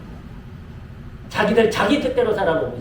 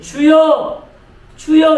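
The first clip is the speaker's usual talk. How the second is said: loud, raised call to the Lord; prayer cry; 5 semitones higher, 6 dB louder, much slower than usual. Shown as a demonstration. Preacher showing how believers call on God, loud prayer cry. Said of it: "이렇게 부릅니다".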